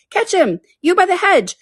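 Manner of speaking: very high, urgent shout; high-pitched Rabbit command; Rabbit calling out. A narrator's reading. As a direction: shout orders to someone at a distance. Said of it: "the rabbit's voice alone".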